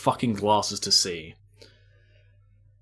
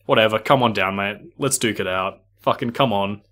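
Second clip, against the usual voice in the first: louder, mock tough-guy dare; retold angry challenge; 4 dB louder than usual. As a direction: throw the challenge back at him. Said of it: "pretty pissed off at this point".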